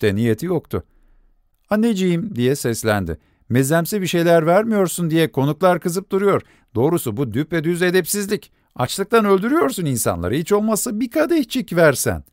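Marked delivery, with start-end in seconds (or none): 1.7-12.2 higher, pleading grown son; son's voice. Acted. Son begging his mother for a drink, higher wheedling voice.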